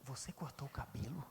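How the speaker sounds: low breathless whisper of a tempter; a flirt murmuring to a married woman; seductive whisper. Retold or imitated. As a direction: whisper it close to her ear. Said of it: "e fala assim".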